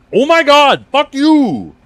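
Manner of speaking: swooping, very high, very loud, drawn-out yelling. Moving a keyboard over and yelling at the keyboard: yelling. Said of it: "I'm yelling at my keyboard".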